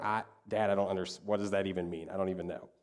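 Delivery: lightly acted confusion, low and soft; baffled child. Daughter baffled by dad's spreadsheet, mildly acted bewilderment. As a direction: imitate a lost kid giving up.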